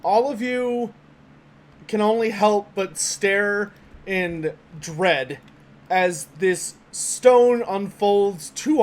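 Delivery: slow, suspenseful scene setting; game master narration. Acted. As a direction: draw the players in slowly. GM describes the troll.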